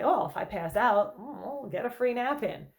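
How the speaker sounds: exaggerated playful self-talk; silly, playful. Shown as a demonstration. Therapist showing how to joke with anxious thoughts, playful. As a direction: make light of the worry. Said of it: "trying to be silly, exaggerated, be playful".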